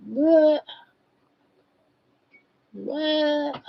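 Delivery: mock jolt awake, high; startled awake. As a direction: snap awake with a high what. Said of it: "I'm starting to go".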